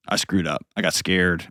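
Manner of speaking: soft, heartfelt confession; choked up. Real, not acted. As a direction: own up quietly, moved. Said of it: "I'm gonna get all choked up".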